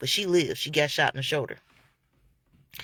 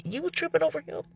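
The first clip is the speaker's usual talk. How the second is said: incredulous; 10 semitones higher, 5 dB quieter, faster than usual. Retold or imitated. Imagined reaction to the girl.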